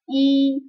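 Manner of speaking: I said with the tongue kept for i but the lips rounded forward like u; lips pursed. Shown as a demonstration. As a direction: push the lips forward while saying I. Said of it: "senyumnya digantikan dengan, eh, monyong".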